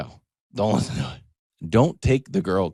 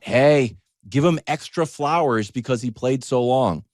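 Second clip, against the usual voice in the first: louder, higher mock pitch for LeBron; mock hype; 5 semitones higher, 6 dB louder than usual. Fan pleading loudly for LeBron, mock hype. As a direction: sell it like an overexcited fan. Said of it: "is not".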